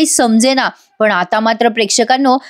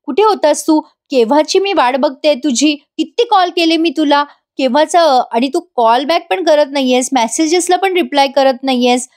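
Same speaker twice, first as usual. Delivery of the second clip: mildly irritated retold scolding, pitched higher; higher-pitched nagging questions; 4 semitones higher than usual. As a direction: play an annoyed wife demanding answers, without shouting. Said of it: "नैना चिडते आणि म्हणते".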